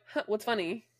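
flat unimpressed "what's funny"; deadpan. Shown as a demonstration. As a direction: ask it bored and unamused. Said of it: "that's my new thing".

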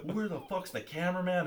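high-pitched imitation of an irate demand; hammed-up exasperated question; mock angry guard. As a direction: act out the guard demanding answers. Imitating angry security director.

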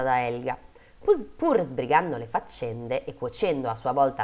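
measured fairy-tale reading; story narration. A narrator's reading. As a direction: read it out like a storyteller. Reads a fairy tale aloud.

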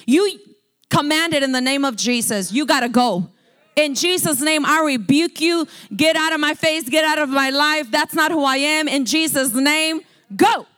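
voice of authority. Acted. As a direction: cast it out with full authority. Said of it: "what tone of voice the devil recognizes? Authority".

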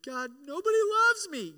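high, loud mock wail of self-pity; over-the-top pitiful moan; whiny self-pity. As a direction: ham up a lonely complaint to God. Mock self-pity cry to God.

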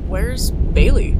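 loud slow call. Acted. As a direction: call out to find him. Calling out for Bailey.

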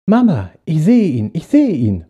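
spotting the star, thrilled; excited. Acted. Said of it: "meinte der kleine Junge aufgeregt". (aufgeregte Kinderstimme)

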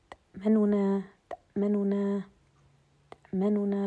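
تأمننا with the middle vowel shortened and snatched; ikhtilas demo. Shown as a demonstration. Teacher repeating تأمننا to show ikhtilas mid-word. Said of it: "لاحظوا أنها في وسط الكلمة".

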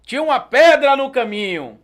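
sketch declamation. Acted. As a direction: declaim like a stage poet. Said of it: "era o esquete assim".

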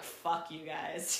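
slow, drawn-out mock yell; retold yell. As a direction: draw it out as a mock holler. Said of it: "So I yelled, like".

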